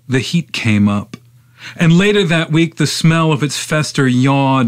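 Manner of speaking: measured, incantatory poem recitation; poetry reading. Acted. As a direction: recite the poem in long, driving phrases.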